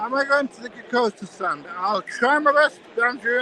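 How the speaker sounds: answering a friend calling from another stand; calling back. Real, not acted. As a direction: shout it back cheerfully to Andrew. Calls back to Andrew across hall.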